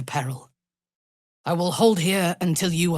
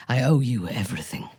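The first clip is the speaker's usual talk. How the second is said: whisper; 3 semitones lower, faster than usual. Acted. Grateful confession.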